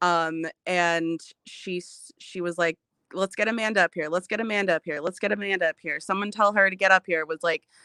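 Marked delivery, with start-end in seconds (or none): 3.1-7.2 heated, insistent, angry, emotional, repeated. Retelling how someone demanded that Amanda join the live: imitating someone angry and emotional. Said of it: "clearly very angry and emotional".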